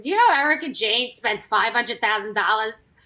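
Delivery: lightly imitated accent of a friend; hint at a friend's accent while quoting him; a light accent impression; Dennis's accent. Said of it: "his accent is like".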